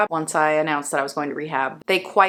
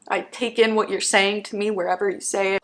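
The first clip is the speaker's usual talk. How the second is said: teary. Real, not acted. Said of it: "stop fucking crying now".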